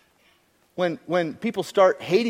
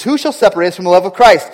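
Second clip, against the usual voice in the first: loud preaching; 5 semitones higher, 10 dB louder, faster than usual. Acted. Same verse now preached loud.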